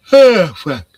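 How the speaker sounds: sudden loud "Oh, fuck" out of nowhere; startled curse. Real, not acted. Streamer reacting to something on screen, loud startled curse. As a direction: blurt it out, caught off guard.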